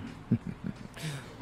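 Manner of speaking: quiet, breath-only chuckle; soft chuckle. Acted. Schemer amused by willing partner, quiet chuckle. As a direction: chuckle softly under your breath.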